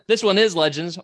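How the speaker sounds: spitting mid-word; spit take. Real, not acted. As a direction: sputter while talking. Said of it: "I just spat everywhere".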